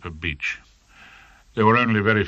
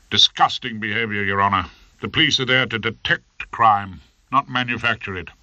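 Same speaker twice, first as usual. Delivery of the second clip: mock courtroom plea; 2 semitones higher than usual. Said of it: "I warmed to my task".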